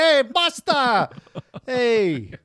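put-on heavy, thick New York street accent, high-pitched. Speaker imitating a teenage movie character's line, thick New York accent. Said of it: "got a thick New York accent".

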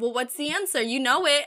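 sassy, cheeky, knowing tone. Retelling what the teacher said in class again: imitating a sassy teacher. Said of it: "Why are you being so sassy with me?".

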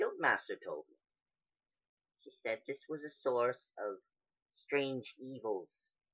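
feisty female cat-folk voice. Player voicing a tabaxi character being questioned, in a tabaxi character voice. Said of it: "you can tell that this particular creature is a tabaxi. Female at that".

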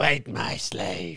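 slithering, hissing snake-like voice. Showing another speaker how to do a snake-like reply, in a snake-like Palpatine voice. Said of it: "And you do it in a snake-like voice".

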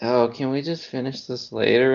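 drowsy, half-asleep voice. Retelling what a wife asked during a long board game: imitating someone half asleep. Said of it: "half asleep, and is like".

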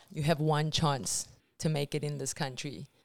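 plain

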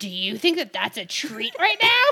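very loud, booming, swooping, unearthly demon voice. Retelling a reply to someone's hopeful remark, in an unearthly demon voice. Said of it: "in like an unearthly demon voice said".

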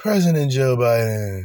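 weary, drained, worn-out, exhausted delivery. Mocking how the man in a campaign video said it, mimicking an exhausted delivery. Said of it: "the way he said President Joe Biden was just exhausting".

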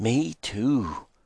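ghostly, eerie, spooky voice. While listening for an owl, a man replies to his companion in an eerie voice. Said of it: "Virgil said with an eerie voice".

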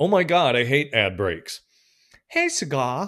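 put-on very loud, high, botched Australian accent. Reading out a message someone just sent: bad Australian accent. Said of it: "I can't do an Australian accent".

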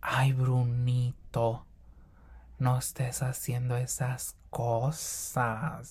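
very slow character voice, every word drawn out. Attempting to imitate a series character after struggling: Paulina de la Mora voice. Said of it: "voy a tratar de hablar como la Paulina de la Mora".

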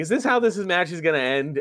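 normal talking voice

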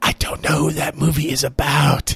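voiced stage half-whisper. Retelling what a girl behind them half-whispered to her dad: imitating someone half-whispering. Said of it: "whispers over to her dad".

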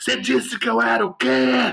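very high-pitched, raspy, rough shouting yell. Recounting a fight, quoting the man who struck him as he fell, retelling a shout. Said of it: "ele gritou assim".

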